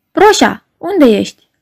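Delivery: musical, tender call, high on Proșa. Acted. Secretary calling tenderly to her vanished boss. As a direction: call him sweetly through tears. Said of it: "cu o voce muzicală, duioasă, deși puțin cam nazal".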